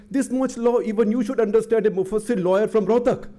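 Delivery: high, scornful put-down; a lightly acted, high-pitched sneer from Shourie; retorting Shourie. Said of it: "And Arun Shourie said".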